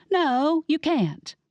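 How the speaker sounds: stamp your foot and refuse; indignant protest. Acted. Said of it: "I stamped my foot".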